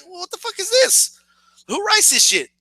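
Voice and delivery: high, rising baffled question; comic disbelief, voice climbing; incredulous protest. Retold or imitated. Viewer reacting to best friend showing up, high disbelief.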